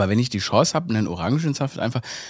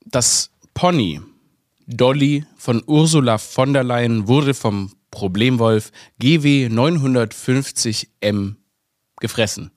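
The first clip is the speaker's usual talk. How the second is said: solemn news read; slower than usual. Pretend. Solemn news-style announcement.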